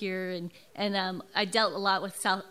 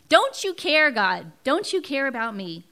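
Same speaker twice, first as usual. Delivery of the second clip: louder, pleading cry; mock cry to God; 4 semitones higher, 7 dB louder than usual. Speaker quoting her own plea to God, loud and pleading. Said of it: "where I'm screaming out".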